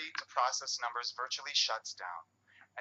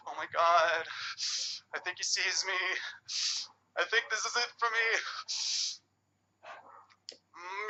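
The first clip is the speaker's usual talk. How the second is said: put-on British accent, a frightened caveman murmuring and then calmly reciting; Ken Robinson accent; 5 semitones higher, 4 dB louder than usual. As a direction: play the hiding caveman in a posh British accent. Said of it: "I got the Ken Robinson accent".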